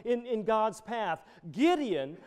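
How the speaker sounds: ordinary talk, nothing marked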